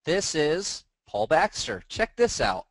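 trying not to sound like radio voice; practice video intro. Shown as a demonstration. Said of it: "Was I radio voice there?".

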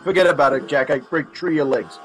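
light Brooklyn mobster accent; a half-hearted Brooklyn tough guy. Shown as a demonstration. Asked for a Brooklyn accent, a light Brooklyn mobster threat. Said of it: "we need a Brooklyn accent".

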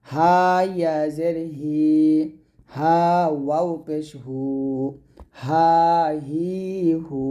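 slow, measured chant of letter names and sounds; teacher's patient drill chant; slow recitation drill. Shown as a demonstration. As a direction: recite each syllable slowly for students to repeat.

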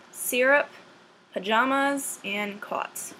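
each word read out slowly and on its own in a Boston accent; Boston accent word list. Shown as a demonstration. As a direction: say every word carefully as a Boston accent sample. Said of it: "a list of words that they want you to pronounce".

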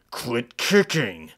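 slow, firm warning. Acted. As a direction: tell him to stop, slow and loud. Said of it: "I warned him".

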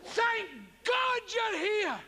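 milk the line like a ham actor; overblown greeting shout. Shown as a demonstration. Actor bursting in, over-the-top relieved greeting shout.

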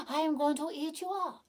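put-on storybook tiger threatening a boy. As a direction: loom over him like a hungry tiger. Tiger threatens little Babaji.

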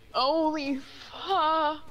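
loud, drawn-out shocked cry; startled shout. Real, not acted. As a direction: yelp it out in real fright. Startled by scary noise in game.

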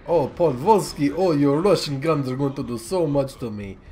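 lightly mocking Russian accent; feigned dread with a hint of Russian accent. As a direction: put on a slight sarcastic Russian voice. Mocking the Russian navy's guns.

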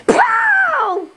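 high-pitched pow, yelled like a sound effect. Acted. Skit actor voicing a blow, high mock pow. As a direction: shout a falling, high pow.

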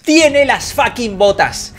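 slow indignant exclamation; drawn-out outraged complaint; outraged disbelief. Real, not acted. Repeats in outrage.

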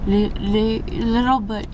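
groggy from anesthesia, stumbling; drowsy, slurred start; woozy stammer. Real, not acted. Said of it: "I can tell that I'm confused".

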